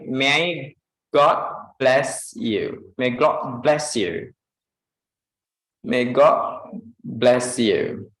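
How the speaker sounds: "may God bless you" slowed and linked. Shown as a demonstration. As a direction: say it slowly and warmly. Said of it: "And next".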